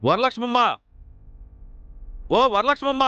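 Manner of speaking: summoning call, pitch rising on the name; demanding call from outside. Acted. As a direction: call someone out of the house. Calling her out of the house.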